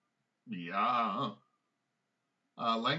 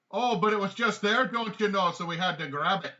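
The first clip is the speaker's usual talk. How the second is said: high, loud goblin yelling back; 9 semitones higher, 9 dB louder than usual. Acted. Game master's goblin excuses the grab, high indignant yell. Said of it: "One of them yells back".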